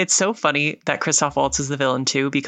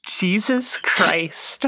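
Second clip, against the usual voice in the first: stifled giggles; 4 semitones higher, much slower than usual. Real, not acted. Cracking up again.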